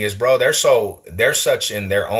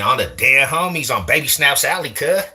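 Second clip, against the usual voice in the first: high-pitched, exaggerated Cali gang accent; mock Cali gang talk; 6 semitones higher than usual. Shown as a demonstration. Streamer joking about his accent, mock Cali gang talk. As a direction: ham up a Cali homie accent. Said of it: "You don't hear me saying".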